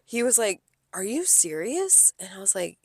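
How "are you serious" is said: slow, higher, softer incredulous question; retold upset customer. Customer upset about bacon in chowder, slow upset disbelief. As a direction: stretch it out in mild mock offence. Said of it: "the guy was so upset with me".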